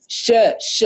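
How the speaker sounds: شا made with the tongue tip, sounding sharp and forward; tongue-tip sheen. Shown as a demonstration. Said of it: "ينطقون الشين من طرف اللسان". (شين من طرف اللسان)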